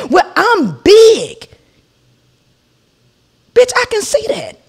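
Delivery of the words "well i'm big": slow mock drawl. Mimicking the neighbour.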